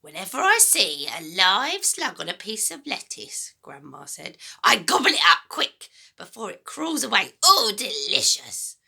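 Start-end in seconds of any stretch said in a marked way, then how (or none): 0.0-3.5 put-on a greedy, gloating old woman's voice; wicked old grandma. Grandma taunting George about eating slugs, gloating. 4.6-8.8 put-on a greedy, gloating old woman's voice; wicked old grandma. Grandma taunting George about eating slugs, gloating.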